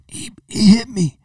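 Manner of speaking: imitating a whiny kid, high and slow. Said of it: "He goes".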